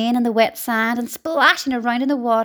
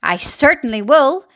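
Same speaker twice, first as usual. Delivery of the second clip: mild snap; 2 semitones higher, 4 dB louder than usual. Acted. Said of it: "Aunt Spiker snapped".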